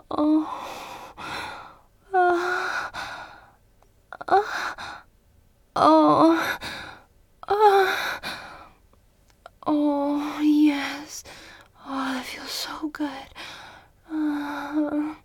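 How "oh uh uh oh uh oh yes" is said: higher, louder building moans; rising moans. Acted. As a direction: let the moans climb and swell. Building climax in roleplay.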